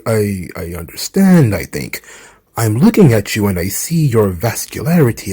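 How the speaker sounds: formal and courteous, a touch low; Keith Lee impression. Keith Lee answering Andrade's offer, mild low formal voice. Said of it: "Andrade trying to recruit Keith Lee".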